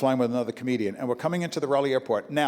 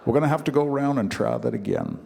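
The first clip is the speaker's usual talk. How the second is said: eerily calm pilot; 3 semitones lower than usual. Retold or imitated. Pilot calmly telling passengers about an aborted landing, eerily calm. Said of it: "in that eerily calm pilot's voice".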